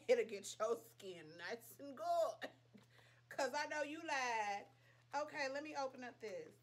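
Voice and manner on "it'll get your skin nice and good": slow, louder, drawn-out tagline; mock ad slogan. Pitching the Farmacy serum to viewers, mock ad slogan. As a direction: sell it like a commercial jingle.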